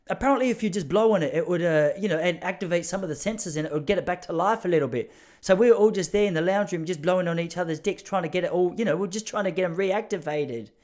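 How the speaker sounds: put-on Kiwi accent sliding towards Cockney; New Zealand accent. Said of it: "This is my New Zealand accent".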